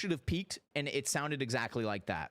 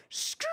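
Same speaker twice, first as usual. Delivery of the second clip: imitated tire skid. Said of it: "I'll just go forward".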